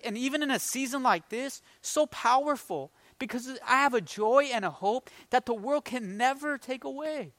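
real emotion welling up in the voice; getting emotional. Real, not acted. Preacher testifying to his congregation about lasting hope, getting emotional. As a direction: let the feeling rise, keeping the volume down. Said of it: "Getting emotional a little bit".

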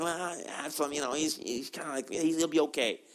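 soft, dismissive excusing; overindulgent father. Acted. David excusing his son Absalom, softly indulgent. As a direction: quietly wave the problem away. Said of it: "a bit of an overindulgent father".

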